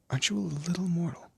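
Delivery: high, patronising lilt; teasing condescension. Acted. Demon lord sizing up a little mortal, teasing condescension.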